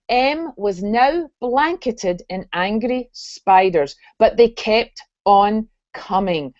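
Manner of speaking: put-on reading a story aloud in a light Scottish accent. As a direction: narrate it with a gentle Scottish lilt. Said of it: "I'm gonna read this in my Scottish accent".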